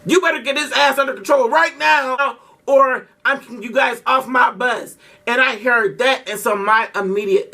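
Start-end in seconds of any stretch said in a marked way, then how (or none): 0.1-4.9 scolding driver. Retold or imitated. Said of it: "he come to Leah talking".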